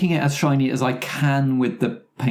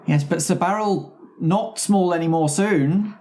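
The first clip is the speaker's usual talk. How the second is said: character voice; 6 semitones higher than usual. Acted. Broken-English character voice.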